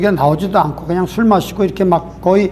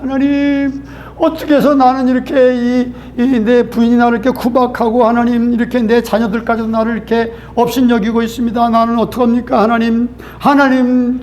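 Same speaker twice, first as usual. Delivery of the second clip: a mildly raised, plaintive grumble at God; complaining prayer; 2 semitones higher than usual. Retold or imitated. Drunk man complaining to God about wife and children, mild plaintive whine. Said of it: "원망하는 기도만 하는".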